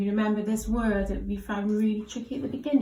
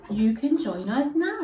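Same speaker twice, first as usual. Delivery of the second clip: expressive character line; 6 dB louder than usual. Shown as a demonstration. Teacher demos the character's line for the child. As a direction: draw it out brightly like the character. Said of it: "He might speak like that".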